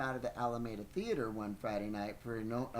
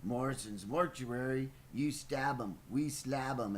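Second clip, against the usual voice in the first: lightly put-on jingle-like phone answer; joke phone greeting. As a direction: answer the phone with a morbid gag. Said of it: "elaborate ways to answer the telephone".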